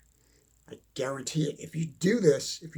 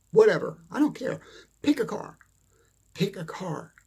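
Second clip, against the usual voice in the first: dismissive; 4 semitones higher than usual. Real, not acted. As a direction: toss it away carelessly. Dismissive high burst.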